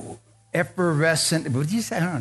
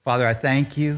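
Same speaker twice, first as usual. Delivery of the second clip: leading prayer. Real, not acted. Prayer for congregation to repeat.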